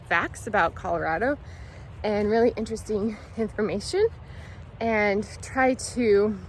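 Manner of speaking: talking while chewing gum; words round a wad of gum. Real, not acted. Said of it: "I also have gum in my mouth".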